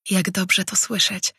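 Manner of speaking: pleased. Acted. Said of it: "rzekł uradowany Tajen".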